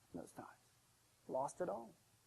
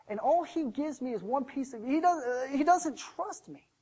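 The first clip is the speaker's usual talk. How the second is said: mildly hammed-up indignation, pitched higher; indignant; 4 semitones higher than usual. Servant fumes to himself over one piece of gold, indignant. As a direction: act out a slighted servant's grievance. Slighted servant fuming in thought.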